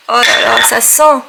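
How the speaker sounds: loud, thrilled sniffing exclamation; delighted. Real, not acted. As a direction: gush over the scent. Smelling the new candle. (ravie, enthousiaste)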